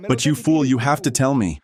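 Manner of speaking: exasperated rebuke of a politician; angry outburst. Real, not acted. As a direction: tell the fool off, pitch up. Ranting at a politician on TV.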